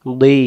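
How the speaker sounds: "দুই" with rounded lips, then released; round, heavy start on "দুই"; rounded DAD. Shown as a demonstration. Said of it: "মুখটা গোল করে ছেড়ে দেবেন".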